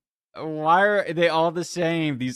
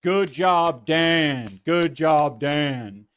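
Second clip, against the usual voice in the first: louder mock-cheery praise; a light goofy cheer; 3 semitones higher, 6 dB louder, much slower than usual. Mocking Dan with goofy praise, lightly voiced. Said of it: "I just put on a goofy voice".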